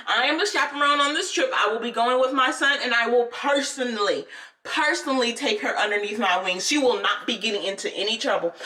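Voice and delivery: firm, emphatic declaration; assertive mother. Retold or imitated. Mother vouches for the girl to her teacher, assertive. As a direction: imitate a mother standing up for a child. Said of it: "This is the mama".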